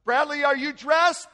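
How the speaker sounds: high, loud imitated yell; yelling upstairs. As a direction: call up the stairs to your husband. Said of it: "I heard Rhonda yell upstairs".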